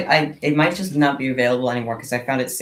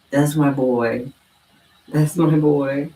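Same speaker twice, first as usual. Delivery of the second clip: slow fond praise; 4 dB louder, much slower than usual. Real, not acted. Praising her cat.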